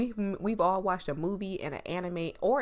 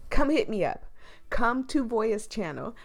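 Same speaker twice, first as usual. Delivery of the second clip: calling out; 4 semitones higher, 5 dB louder than usual. Real, not acted. Streamer calling out to creators.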